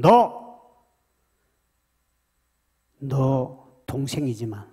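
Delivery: loud, rebuking divine voice in bursts; scolding. Acted. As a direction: thunder the rebuke at the sister. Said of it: "호통을 치면서". (하나님이 누나를 꾸짖는 호통)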